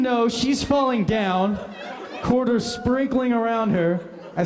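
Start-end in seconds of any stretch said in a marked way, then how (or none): 0.0-0.3 retold scream. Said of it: "I scream".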